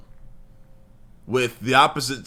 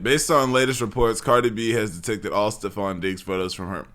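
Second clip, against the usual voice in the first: low, even read-out; plain, low-pitched recital of a written post; reading aloud; 5 semitones lower than usual. Real, not acted. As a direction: read it off the screen, subdued. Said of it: "I'm just gonna read it".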